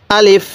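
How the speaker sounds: আলিফ said short, without drawing out the vowels; teacher's brief model of আলিফ; no stretching. Shown as a demonstration. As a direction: cut আলিফ short, no lengthening. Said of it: "এরকমভাবে শিখবেন".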